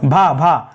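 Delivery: भा repeated low, with strong aspiration; two separate emphatic भा syllables, falling; aspirated भ drilled. Shown as a demonstration. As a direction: drill the breathy bhaa in भा, भा. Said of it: "खंभा होता है".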